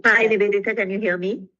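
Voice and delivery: delayed echo over a bad call line. Real, not acted. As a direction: voice bouncing back with a lag. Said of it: "there is a lag and echo".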